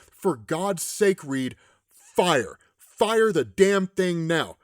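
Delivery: slow, forceful retold order; emphatic, spaced-out demand; urgent command. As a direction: punch out each word slowly. Acting Tony's desperate final order.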